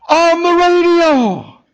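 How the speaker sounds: very high, loud, slow wail; retold tearful cry. Older woman explaining where she heard the caller, imitated tearful wail. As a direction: stretch it out like an overwhelmed woman wailing. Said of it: "through her tears".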